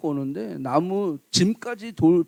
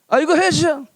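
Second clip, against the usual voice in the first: bossy servant order; 7 semitones higher, 4 dB louder than usual. Retold or imitated. Servant ordering master around.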